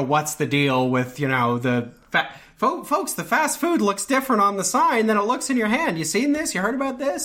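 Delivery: high, mock stand-up comedian patter; stand-up comic bit. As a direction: ham up a cheesy club comic asking the crowd.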